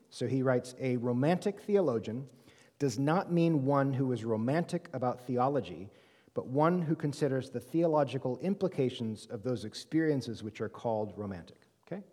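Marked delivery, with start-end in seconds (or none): 0.8-11.6 measured, deliberate read-aloud; slow reading. Real, not acted. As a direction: read it out slowly for listeners without the text. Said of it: "I'll read it slowly".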